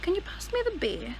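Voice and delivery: British accent, R dropped on "beer". Shown as a demonstration. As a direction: put on a British lilt, "beer" without R. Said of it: "I'm gonna have to say it like this".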